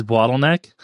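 BOTTLENECK with a Boston vowel; Boston accent. Retold or imitated. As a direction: imitate a Bostonian saying BOTTLENECK. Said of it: "his Boston accent comes through".

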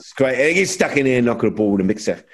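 mock an English manager in his accent. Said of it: "That's a really good accent".

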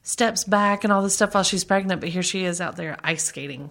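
mildly indignant imitation of upset gossipers; mock outrage. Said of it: "up in arms 'cause they were like".

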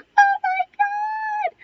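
high, loud cry of disbelief; overwhelmed surprise. Retold or imitated. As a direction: shriek it out like seeing a lost friend. Coach recognizes her, both crying.

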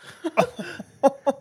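high-pitched chuckle; short high giggle; laugh. Real, not acted. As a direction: burst of high laughter mid-story. Laughs amid the twist.

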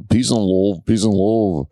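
lightly put-on Liverpool accent; a touch of a Liverpudlian band; a drummer. Host repeating for the player, light musician impression. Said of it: "Yeah, the drummer".

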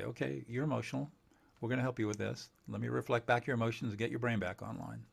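soft, calm and patient; calm reassuring. Retold or imitated. Calm helper soothing an upset person, soft and patient. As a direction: soothe them like a steady helper. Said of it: "It's just gonna say".

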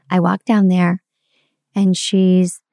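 usual speaking voice

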